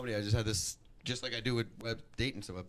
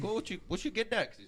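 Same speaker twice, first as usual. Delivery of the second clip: high, badly faked Irish accent; awful Irish accent; 10 semitones higher than usual. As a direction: do a hammed-up Irish father. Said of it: "That's my awful Irish accent".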